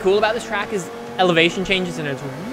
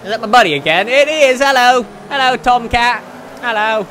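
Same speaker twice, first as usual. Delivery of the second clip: loud, higher, delighted hello; excited greeting; 5 semitones higher, 7 dB louder than usual. Real, not acted. Gamer spotting buddy Tomcat in the race, excited loud greeting. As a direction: call out to a buddy you just spotted.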